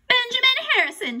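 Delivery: high, loud shout; high-pitched, loud answer. A narrator's reading. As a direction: call out the answer. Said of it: "shouted Morgan Brocklebank".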